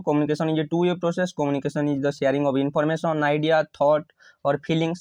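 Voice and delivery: slow, measured reading of the answer; slow model-answer dictation. Shown as a demonstration. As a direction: give it slowly so they can write.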